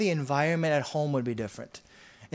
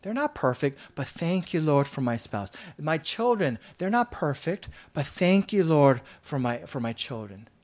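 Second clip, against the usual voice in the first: grateful prayer. Retold or imitated. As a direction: thank God gently, from the heart. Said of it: "what if we just said".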